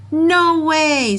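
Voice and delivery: high, loud farmer's refusal; Farmer Brown refusing. Acted. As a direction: bark a flat no as the stubborn farmer. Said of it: "said Farmer Brown".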